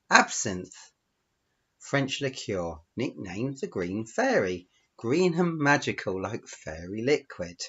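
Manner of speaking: deliberate storytelling, lingering on key phrases; story narration. Acted. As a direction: tell it as a read-aloud tale. Reads out own story.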